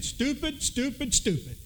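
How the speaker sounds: a hint of repetitive parrot squawk, starting high and dropping; lightly voiced parrot. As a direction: lightly imitate a parrot repeating an insult. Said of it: "the parrot kept saying".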